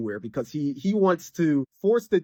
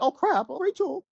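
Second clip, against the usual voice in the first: high, alarmed mock panic over a stabbed friend; imitating a sudden shocked gasp of her name; a retold startled outcry, pitched up; panicked cry; 10 semitones higher than usual. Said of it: "It's like".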